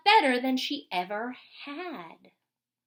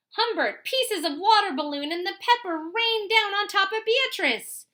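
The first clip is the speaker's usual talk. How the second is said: higher, louder building telling; excited narration; 7 semitones higher, 4 dB louder than usual. A narrator's reading. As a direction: tell the climax with rising excitement. Story climax, excited narration.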